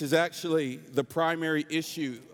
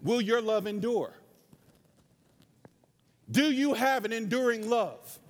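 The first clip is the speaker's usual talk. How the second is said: impassioned sermon delivery, pitched above chat; earnest pulpit exhortation; preaching; 5 semitones higher than usual. Real, not acted. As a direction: preach it to the congregation in measured, emphatic phrases.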